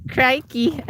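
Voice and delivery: put-on Tasmanian accent. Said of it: "that did sound, sound Tasmanian".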